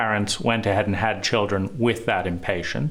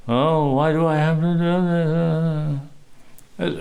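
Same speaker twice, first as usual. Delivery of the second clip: put-on whiny child; 5 semitones higher than usual. Mimics wife whining.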